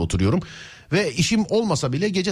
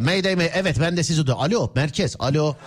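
police radio. Pretend. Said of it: "Amerikan filmlerindeki telsiz konuşması gibi".

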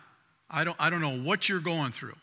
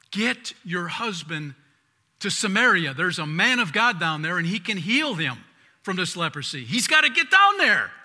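urgent plea; 2 semitones higher, 5 dB louder than usual. Retold or imitated. Young girl urging Naaman's wife to send him, urgent and rising. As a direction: press her to act now, rising in urgency.

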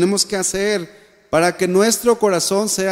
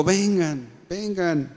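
soft, unforced beckoning; gentle invitation; 6 dB quieter, much slower than usual. Retold or imitated. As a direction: invite them closer quietly.

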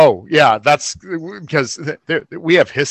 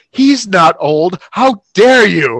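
slow, louder mock offense; mock indignant; 4 semitones higher, 5 dB louder, slower than usual. Friend defending the boyfriend's age, mock indignant. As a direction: draw it out like a scandalized defender. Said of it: "I'm like".

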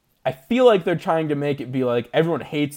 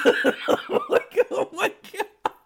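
laughing; much slower than usual. Retold or imitated. Embarrassed at crying.

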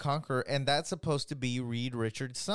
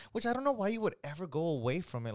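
getting heated; 3 semitones higher, much faster than usual. Real, not acted. Fan scolds the filmmakers over the redesign, heated. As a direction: rattle it off, worked up. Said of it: "sorry that I'm getting so heated".

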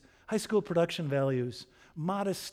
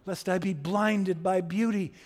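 lightly hammed-up courtly declamation, raised and loud; Quixote; 4 semitones higher, 6 dB louder than usual. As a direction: declaim it like a knight from a bad novel. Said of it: "Quixote talks like that".

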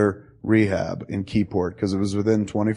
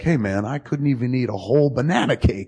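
laughing mock quote; 4 semitones higher than usual. Mocking friend's old complaint.

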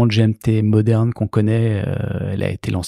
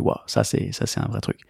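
breathy whispered wow; awed whisper; 6 dB quieter than usual. Retold or imitated. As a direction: whisper it like you're amazed. Imagined buyer's wow reaction.

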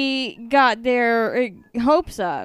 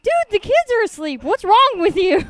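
hissed scolding; 8 semitones higher, 4 dB louder, faster than usual. Retold or imitated. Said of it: "I'm like".

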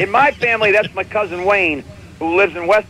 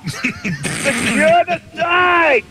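high, drawn-out mock yell; sister's slow, high mock shout; mock scream from the background; 9 semitones higher, much slower than usual. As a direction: yell it like a sister from the next room. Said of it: "She's screaming in the background".

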